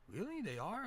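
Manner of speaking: imitated wide-eyed amazement, very high; amazed. Ted learning that elephants fear mice, high-pitched and amazed. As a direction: squeak it in mock astonishment.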